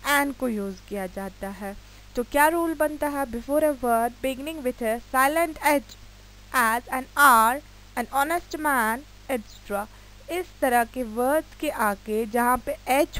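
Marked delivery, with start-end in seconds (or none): 3.3-9.8 slow dictation. Shown as a demonstration. Dictates the rule and examples.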